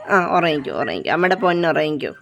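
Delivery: low, tender lulling; soothing to sleep. Real, not acted. Owner putting a puppy to sleep, soothing low. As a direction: lull a little one in a dropped voice.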